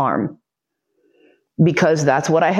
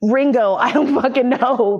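mock yelling; 6 semitones higher, slower than usual. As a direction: toss out names at random, exasperated. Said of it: "I'm just yelling out names".

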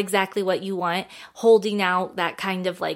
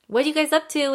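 lightly imitated friend, pitched higher; friendly question; 8 semitones higher, faster than usual. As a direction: retell a breezy, curious greeting up high. Retold friend's casual question.

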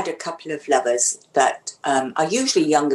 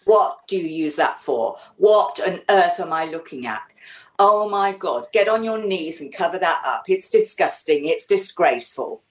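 dominatrix scolding. Shown as a demonstration. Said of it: "the insults you could throw my way".

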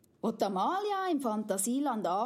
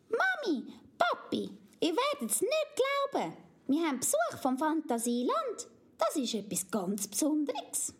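put-on very high, thrilled child voice; excited little girl Amalia; 7 semitones higher than usual. Amalia shows her parents the dragon, excited child voice. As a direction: announce the surprise guest breathlessly.

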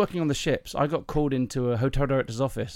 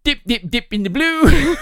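loud, high, drawn-out chant; punchline yelp; 11 semitones higher, 10 dB louder, slower than usual. Acted. Salesman after sniffing the knickers, loud high chant. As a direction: blurt it high and loud, breaking into laughter.

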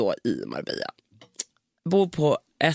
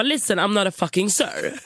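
higher mock outburst; flipping out; 5 semitones higher than usual. Woman called sir by the receptionist, mock outrage. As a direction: snap back, half-hearted fury. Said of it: "Och jag flippar".

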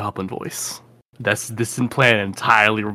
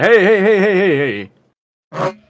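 urgent calming; 2 semitones higher than usual. Acted. Character calming ally in game.

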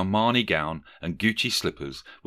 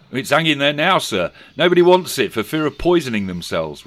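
put-on boy voice; 7 semitones higher, 7 dB louder than usual. A narrator's reading. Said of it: "replied the boy".

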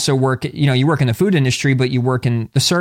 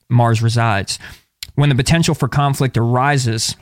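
even, measured book-excerpt read; reading aloud. Acted. Podcast host reading an astrology book excerpt, reading aloud. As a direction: read it out from the page.

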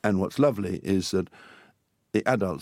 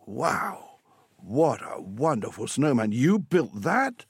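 high, drawn-out wonder; amazed; 5 semitones higher, much slower than usual. Acted. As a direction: marvel slowly, rising into disbelief. Dad amazed at the snowman.

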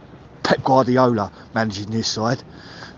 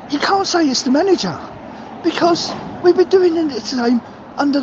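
furious rant; 12 semitones higher than usual. Real, not acted. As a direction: vent real fury at the players, voice climbing high. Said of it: "I know I'm sounding like I'm ranting".

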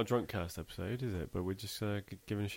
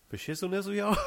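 mock rapper; 11 semitones higher, 6 dB louder than usual. Joking rapper parody.

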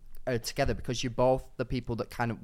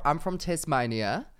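slowed-down put-on Aussie accent; attempted Australian accent; slower than usual. Shown as a demonstration. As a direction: try an Australian accent that drifts toward New Zealand. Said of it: "Do your best Australian accent".

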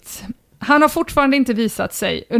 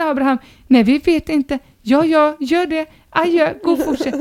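neighbour's wife. Acted. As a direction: imitate a woman's side of a stairwell exchange. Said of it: "så kanske hon säger".

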